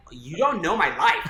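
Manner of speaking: retold upset outburst. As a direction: act out an offended comeback to mom. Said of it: "And I was so upset".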